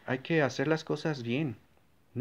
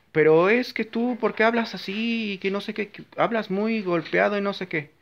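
mock critic; 6 semitones higher than usual. Mocking a critic of his speech.

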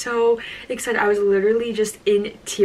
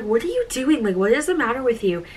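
mildly exasperated, lifted pitch; retold exasperation; 3 semitones higher than usual. Asking the sister who starts filming, mock exasperation. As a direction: playfully demand an explanation.

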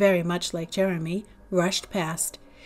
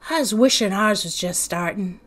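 sighing. Acted. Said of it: "sighed Jeremy".

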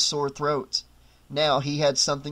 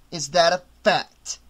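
hotly. Acted. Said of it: "Aldous said hotly".

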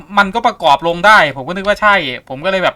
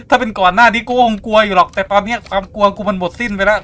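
mock bravado; 5 semitones higher, 3 dB louder than usual. Boasts fear is gone.

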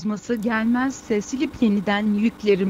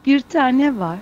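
foreigner Turkish; 4 semitones higher than usual. Acted. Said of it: "biz bu Türkçeyi yeni öğrenenlere".

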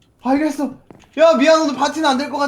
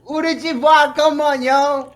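bro voice; 3 semitones higher than usual. Acted. James inviting in bro voice.

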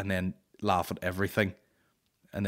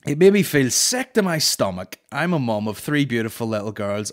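louder, prim, offended letter reading; indignant mum voice; 6 dB louder than usual. Retold or imitated. Comedian reading Marion's email, indignant. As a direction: read it like a scandalised mother.

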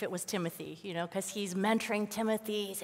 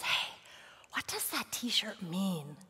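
hushed, slow whisper; 7 dB quieter, slower than usual. Retold or imitated. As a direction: ask quietly so no one hears. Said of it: "I whispered to one of the staff members".

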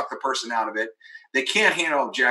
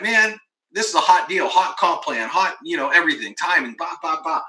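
retold exasperated rant, higher; a touch of mock frustration; getting mad; 4 semitones higher than usual. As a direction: rattle off a mildly irritated complaint. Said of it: "I'm, like, getting mad".

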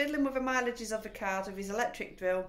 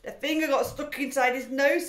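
put-on higher, loud eager storytelling girl; gleeful girl; 7 semitones higher, 11 dB louder than usual. A narrator's reading. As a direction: tell it with relish. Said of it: "said Matilda".

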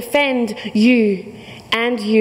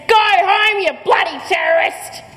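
retold scream; 6 semitones higher than usual. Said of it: "and screams".

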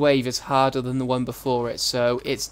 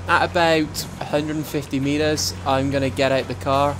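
lightly put-on American accent; a hint of American in the accent. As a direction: slip briefly into an American accent. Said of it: "I'm talking with an American accent".

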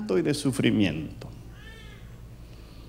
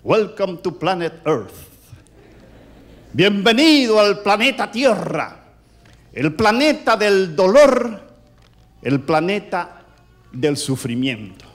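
doctor's greeting. Retold or imitated. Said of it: "como diciéndole el médico al niño".

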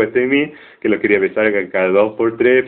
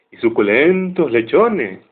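sarcasmo irónico; 4 semitones higher, slower than usual. Retold or imitated. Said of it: "discurso irónico y sarcástico".

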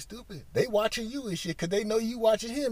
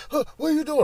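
higher, louder nagging question; imitating suspicious girlfriend; 9 semitones higher, 4 dB louder, much faster than usual. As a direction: ask it like a suspicious girlfriend checking up on him. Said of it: "You be like".

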